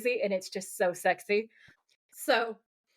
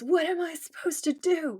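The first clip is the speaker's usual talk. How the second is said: high, raised mock cry of despair; mock scream; 8 semitones higher than usual. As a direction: imitate his screamed question. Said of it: "And then he screams".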